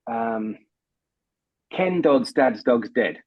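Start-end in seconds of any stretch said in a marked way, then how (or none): 1.7-3.2 slow, careful tongue twister; slow demo line. Shown as a demonstration. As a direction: spell out each word slowly. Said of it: "So can you say".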